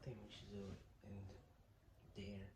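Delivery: slow hushed whisper. Real, not acted. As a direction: whisper the plan quietly. Hiding prank plans.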